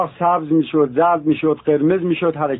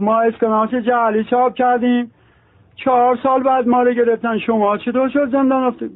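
a hint of Azeri Turkish lilt, pitched up; mild Turkish accent; 6 semitones higher than usual. The forger tells his cellmate how he was caught, in a mild Turkish accent. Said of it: "گفت".

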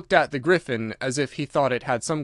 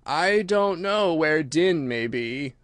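Mock Turtle voice; 3 semitones higher, much slower than usual.

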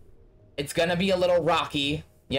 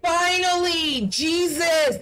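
relieved shout; 8 semitones higher, slower than usual. Real, not acted. Player finally beats the puzzle, relieved shout. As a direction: let it burst out.

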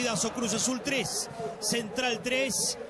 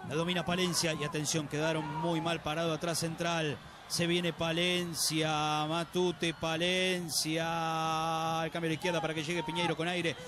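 breakneck goal commentary; 4 semitones lower than usual. Real, not acted. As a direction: rush the play and yell gol. Counterattack goal, racing call.

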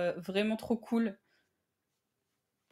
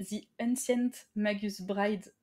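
English title "The Ancient Magus Bride" said slowly with an English accent; slower than usual. Shown as a demonstration. Presenting the manga title to viewers, in a careful English accent. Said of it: "Notez mon accent anglais sur dix".

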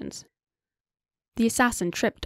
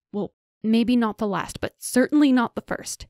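flustered yell, louder and rising to a higher pitch; 4 semitones higher, 4 dB louder than usual. Acted. Flustered woman yelling back at a teasing intruder. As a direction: shout it back at him, caught off guard. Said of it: "Janir yelled".

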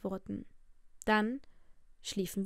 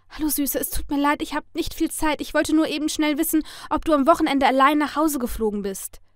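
feigned casual; 5 semitones higher, 5 dB louder than usual. A narrator's reading. Feigned casual, hurried call to sister.

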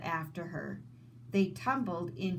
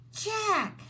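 high, sudden alarmed call of a name; gasped cry; 13 semitones higher, 4 dB louder than usual. Acted. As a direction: gasp his name out in fright. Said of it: "she gasped".

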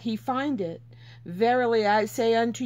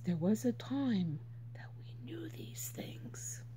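soft, much quieter hushed aside; whisper; 4 semitones lower, 12 dB quieter than usual. Real, not acted. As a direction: lean in and whisper it. Intimate aside in the sermon.

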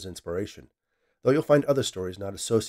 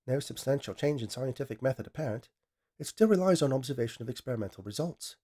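lightly voiced machine, cool and level; dispassionate AI; 4 semitones higher than usual. AI corrects the scientist, dispassionate and level. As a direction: state it without feeling. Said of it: "Vivian declared dispassionately".

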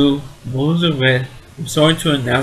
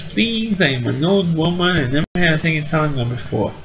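put-on pleading old woman; 3 semitones higher than usual. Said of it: "My Aunt Esther says".

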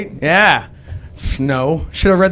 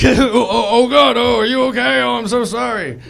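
high, louder fake concern; higher, panicky pretend sorry; mock-worried apology; 8 semitones higher, 4 dB louder than usual. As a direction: ham up the fretful apology. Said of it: "and I'm like".

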